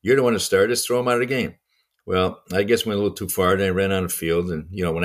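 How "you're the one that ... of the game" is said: mock yell at an umpire, pitched up; retold protest in a higher voice. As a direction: re-enact an angry outburst, slightly raised. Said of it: "yelling at this umpire".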